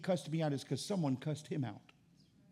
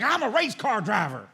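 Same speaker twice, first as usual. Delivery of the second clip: slow, drawn-out Southern boast, a bit louder; mock Southern redneck; 3 semitones higher, 6 dB louder, slower than usual. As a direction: brag like a Southern good ol' boy, slowly. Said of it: "he was a Southerner to the core".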